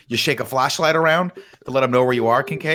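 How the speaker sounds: a hint of mock Bond; mocking Bond taunt. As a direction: needle him with a sneer. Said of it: "Bond's like".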